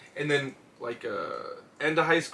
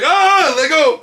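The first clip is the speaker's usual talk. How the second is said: high, loud plea to be released; hammed-up yelp; mock pained yell; 11 semitones higher, 9 dB louder, much slower than usual. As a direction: cry out as if caught in a hold. Acting out yelling during tap outs.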